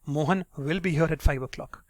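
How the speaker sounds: tone going up on "will"; assured emphasis on "will"; stress on will. Shown as a demonstration. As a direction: make "will" the certain, stressed word. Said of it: "Your tone is going up at will".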